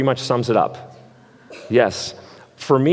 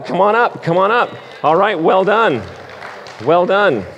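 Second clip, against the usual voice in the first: game host; 7 semitones higher than usual. Real, not acted. Hosting a Bible drill game.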